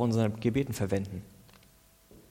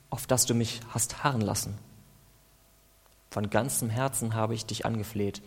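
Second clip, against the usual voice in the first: earnest, pleading psalm prayer; impassioned prayer reading; fervent prayer. Acted. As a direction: plead with God through the psalm.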